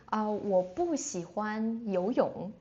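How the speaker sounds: 不 in 我不喜欢游泳 marked clearly, sentence said slowly; slow teaching demo stressing 不 in 我不喜欢游泳. Shown as a demonstration. Teacher shows students a negative sentence, stressing 不. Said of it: "I can say".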